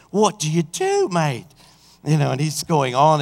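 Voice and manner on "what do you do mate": mock Australian. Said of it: "I think he's Australian".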